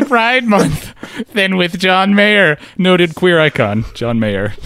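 high, slow spooky ghoul voice; jack o lantern voice. Acted. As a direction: drawl it out like a Halloween crypt keeper. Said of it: "earlier reader: jack o lantern voice".

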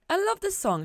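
high, delighted chirp. A narrator's reading. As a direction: squeal with delight at the song. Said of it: "she chirped".

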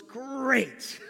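gleeful, laughing retort; too joyful. Retold or imitated. Senior pastor hears of staff conflict, too joyful. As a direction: relish it with a laugh breaking in. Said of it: "He just seemed a little too joyful".

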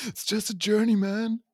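high, loud hammed-up surfer; California surfer dude. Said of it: "I just sounded like a California surfer dude".

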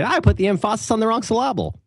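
high mimicry, "emphasis" stressed on its second syllable; misplaced stresses. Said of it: "my grandmother constantly saying".

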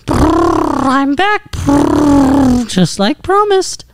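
high, bright talking horse voice; brighter voice. Acted. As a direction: lift the voice up light and bright. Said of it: "your voice got brighter".

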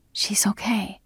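soft, whispered reply; hushed, lightly breathed answer; hushed reassurance. Acted. Whispered reply over sleeping woman.

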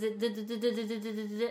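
rapid d-d-d buzz of a crossing signal; imitated buzzing. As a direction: copy the beeping crosswalk buzzer. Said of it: "it does that buzzing".

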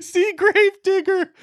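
high, stretched announcer yell; monster truck ad. Pretend. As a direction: hype it like a Sunday monster truck promo. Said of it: "those monster truck commercials".

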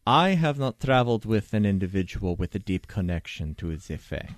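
lightly voiced, deliberate expert advisor; measured expert. Expert answering a party member's spitballed idea, measured. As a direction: weigh it up formally, as a consulted expert.

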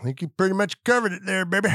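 lightly voiced wise old man; a hint of a wise old man; old sage. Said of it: "That's my wise old man voice".

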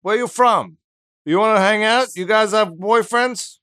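high, fast put-on Brooklyn voice; Brooklyn accent. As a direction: go over the top with a Brooklyn accent. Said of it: "why he's from Brooklyn".

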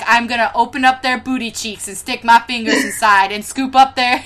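emphatic, matter-of-fact boast; mock matter-of-fact. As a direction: announce the absurd plan as plain fact. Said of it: "so matter-of-factly".

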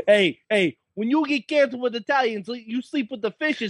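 hammed-up mock-Italian accent; playful, badly faked Italian-American accent. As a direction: put on a cheesy Italian mobster accent. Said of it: "do a bad Italian accent".

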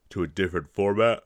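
half-yawned words, mouth stretched open; yawning. Real, not acted. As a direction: let a yawn creep into the words. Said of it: "Jeez, I'm almost yawning today".

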